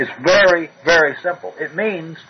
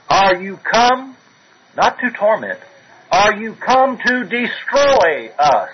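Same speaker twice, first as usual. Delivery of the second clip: fearful demon; 6 semitones higher, slower than usual. Retold or imitated. Demon quoted pleading with Christ.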